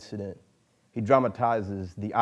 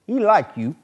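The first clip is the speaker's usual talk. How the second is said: put-on raised, louder old man's voice; Old Jack voice; 11 semitones higher, 10 dB louder than usual. Old mentor abruptly telling the boy about his father, raised old man's voice. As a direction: drop into the old mentor speaking suddenly. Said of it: "Old Jack said suddenly".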